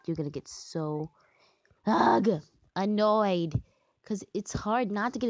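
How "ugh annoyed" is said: exasperated groan into the word; annoyed. Real, not acted. Player fed up with trying to get to nine, annoyed. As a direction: let the irritation out. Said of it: "This game is so annoying".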